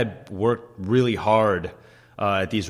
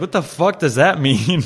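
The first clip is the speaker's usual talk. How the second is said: higher, louder put-on voice scoffing; mocking coworker; 6 semitones higher, 4 dB louder than usual. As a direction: scoff like an unimpressed dishwasher. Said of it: "And they're like".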